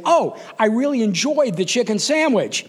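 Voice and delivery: high, swooping rehearsed enthusiasm; practiced line. Retold or imitated. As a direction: overdo a coached compliment. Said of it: "I'm gonna say".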